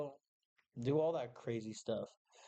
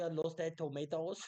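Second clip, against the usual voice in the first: put-on Indian accent; 3 semitones higher than usual. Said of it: "How do you do an Indian accent with New Jersey accent?".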